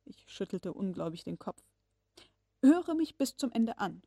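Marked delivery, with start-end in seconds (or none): 2.6-4.0 raised, insistent voice. Acted. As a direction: demand to be heard out. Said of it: "mit gehobener Stimme".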